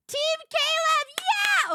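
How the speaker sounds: high, loud cheer. Real, not acted. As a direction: cheer it like a fan. Cheering for Caleb.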